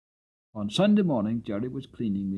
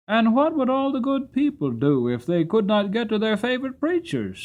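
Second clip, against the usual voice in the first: challenging question; 10 semitones higher, 5 dB louder than usual. Acted.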